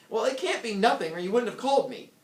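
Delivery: husband snapping at his wife on the phone; irritated. Acted. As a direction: argue with the wife, stressing can't.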